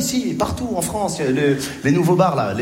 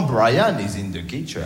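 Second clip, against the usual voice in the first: slow, lower schoolbook answer in English; dutiful pupil; 5 semitones lower, slower than usual. Retold or imitated. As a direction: recite it obediently, word by word. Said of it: "tu répondais sagement".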